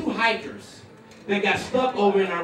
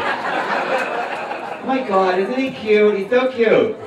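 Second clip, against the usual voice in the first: gushing adoration; slower than usual. Acted. Acts besotted partner watching sleeper.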